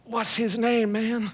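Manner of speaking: laughing aside. Retold or imitated. Churchgoer whispers to a friend in the lobby, hushed and laughing. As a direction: lean in and ask it under your breath with a laugh.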